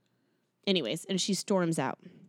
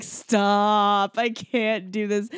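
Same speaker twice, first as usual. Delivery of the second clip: drawn-out, overwhelmed protest; exasperated; 4 dB louder, much slower than usual. Retold or imitated. Listener recalls cringing at a corny love speech, exasperated. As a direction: groan it out slowly, can't take any more.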